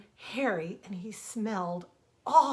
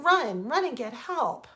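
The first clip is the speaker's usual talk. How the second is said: louder, urging him on; urgent shout; 4 semitones higher, 7 dB louder than usual. Acted. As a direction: push him to run for help. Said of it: "she shouted".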